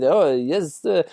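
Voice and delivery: lightly put-on French accent; a brief mock French accent. Imagining a French narrator reading the audiobook, in a light French accent. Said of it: "if there was a French person doing this".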